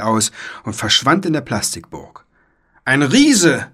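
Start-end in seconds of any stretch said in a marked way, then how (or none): 2.8-3.7 high, loud exclamation; alarmed call. A narrator's reading. Knight discovering a giant, calling out high and loud. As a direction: cry out at a shocking sight. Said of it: "rief der Ritter".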